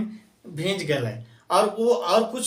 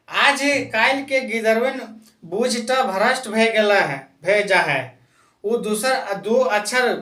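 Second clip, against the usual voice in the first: a hint of a grumbling old villager, a little raised; grumbling old man; 2 semitones higher than usual. Old man in the village council grumbling about today's youngsters, lightly voiced grumble. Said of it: "मतलब एक बूढ़ा ऐसे बोल रहा है".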